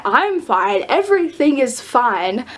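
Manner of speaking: slow, drawn-out self-reassurance; mock forced calm. Vlogger recalling hidden panic at meeting an idol, forced calm. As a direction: insist on calm while freaking out inside. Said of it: "I was, like, internally freaking out".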